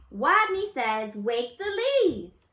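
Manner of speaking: loud, slow game command; stronger voice. A narrator's reading. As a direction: call the game firmly. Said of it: "Wadney's voice was stronger".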